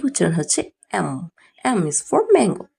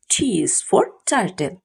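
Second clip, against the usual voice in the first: slow drill; much slower than usual. Shown as a demonstration. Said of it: "slow teaching drill".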